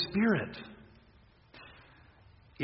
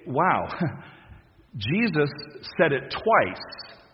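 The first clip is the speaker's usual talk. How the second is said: amazed wow; much slower than usual. Pretend. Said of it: "We ought to sit up and say".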